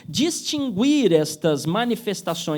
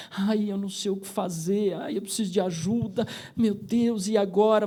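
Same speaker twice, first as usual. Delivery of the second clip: fearful; 4 dB quieter than usual. Acted. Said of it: "a pessoa esteja receosa, temerosa, vitimada".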